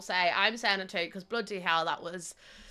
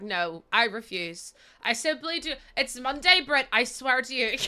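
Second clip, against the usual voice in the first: mock-indignant refusal; 3 semitones higher than usual. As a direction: refuse in hammed-up protest. Acts out imagined indignant refusal.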